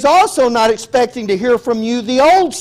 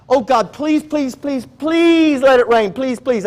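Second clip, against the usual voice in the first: pleading please after please, pitched higher; mock begging prayer; 4 semitones higher than usual. Preacher mimics a believer begging God for rain, mock pleading. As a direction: whine at God like a child who wants rain.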